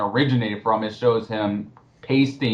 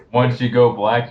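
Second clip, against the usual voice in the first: laughing. Real, not acted. Laughing through the joke.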